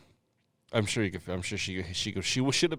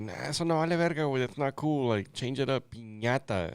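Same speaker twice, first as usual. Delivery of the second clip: higher, scornful Spanish; mock Mexican dismissal; 4 semitones higher than usual. Joking about the letter ñ, higher scornful aside. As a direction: wave it off like a fed-up local. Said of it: "it's like".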